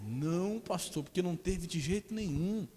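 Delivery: a hint of the pleading husband; husband denying. Husband denying to pastor, lightly pleading. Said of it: "husband denies".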